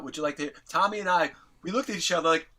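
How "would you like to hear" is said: said straight out, no fuss; matter-of-fact, understated question; Gene Simmons. Retold or imitated. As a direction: imitate a star's casual offer. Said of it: "He just said it straight out".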